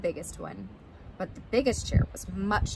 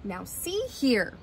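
slow, understated father bear roar; mildly stern, drawn-out demand; Papa Bear; 2 semitones higher, slower than usual. Acted. Papa Bear confronts sleeping Goldilocks, mock stern roar. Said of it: "roared Papa Bear".

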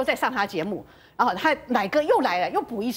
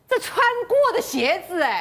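higher, scandalized exclamation; shocked discovery; 6 semitones higher than usual. Retold or imitated. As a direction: act out discovering a nasty surprise. Acts out shocked discovery of used shoes.

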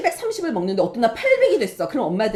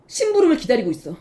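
ordinary talk

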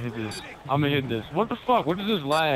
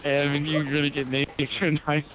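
tipsy, laughing between lines. Real, not acted. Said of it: "You're laughing too much".

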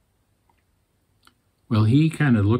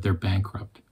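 low, weak and much softer, barely there; faint reply; 3 semitones lower, 9 dB quieter than usual. Retold or imitated. Dying teacher tells the preacher his theories failed, faint and weak. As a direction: let it fall out drained and spent.

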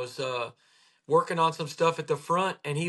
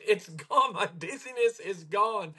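excited patient; 4 semitones higher than usual. Retold or imitated. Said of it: "And he's so excited".

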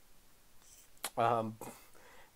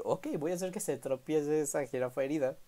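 mock casual voice; 6 semitones higher than usual. Hypothetical speaker voiced.

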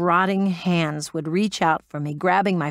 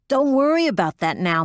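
raised, higher urgent shout; 7 semitones higher than usual. Acted. Metz yelling orders over the radio, shouting. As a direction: yell it over the radio noise. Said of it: "Metz shouted".

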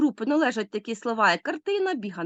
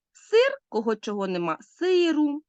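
"сиру" stressed on the first syllable, higher; fixed stress; 5 semitones higher than usual. Shown as a demonstration. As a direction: keep the stress of "сир" in "сиру", on СИ. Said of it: "наголос залишається на тому самому місці".

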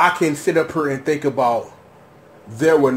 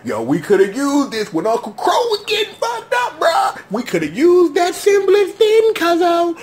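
mock exasperation; 12 semitones higher than usual.

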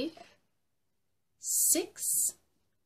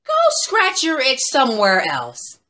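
tetchy turtle; 6 semitones higher, 13 dB louder than usual. Acted. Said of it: "said the turtle".

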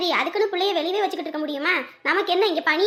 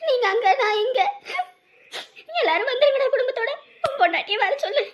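higher, half-laughing half-crying on the phone; tearful; 4 semitones higher than usual. Acted. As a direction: voice breaking with happy tears. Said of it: "இப்ப எதுக்கு அழுதுட்டு இருக்க?".

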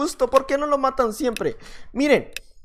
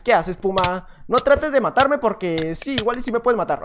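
usual speaking voice

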